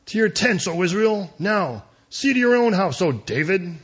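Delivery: loud, high call to leave; rallying cry. Acted. Israel walking out on the king, defiant calling out. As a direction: call it out over a crowd.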